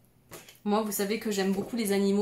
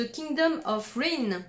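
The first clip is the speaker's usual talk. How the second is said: slow French-speaker attempt at English; self-mocked English accent; 4 semitones higher, slower than usual. Real, not acted. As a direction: announce the title in a proud, shaky English accent. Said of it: "avec mon super accent anglais". (accent anglais approximatif)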